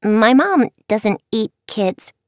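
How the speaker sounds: put-on cheerful little girl, smiling; sweet child voice, smiling. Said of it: "Ginger said with a smile".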